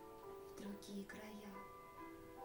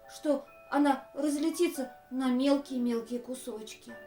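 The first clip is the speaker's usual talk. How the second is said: urgent order; 7 dB louder than usual. Acted. Elephant orders duck, threatens cloud.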